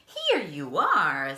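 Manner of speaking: announcing bellhop. Acted. Bellhop presenting the room, loud.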